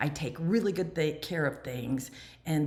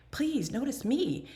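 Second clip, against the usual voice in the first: higher, slow needy plea; pleading for notice; 8 semitones higher, slower than usual. Retold or imitated. Recovering mother wanting praise for her change, slow high plea. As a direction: beg for attention, a little needy. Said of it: "kind of like".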